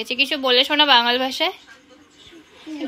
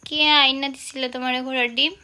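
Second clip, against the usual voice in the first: Bangal dialect question. Shown as a demonstration. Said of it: "কিছু একটা বল বাঙাল ভাষায়".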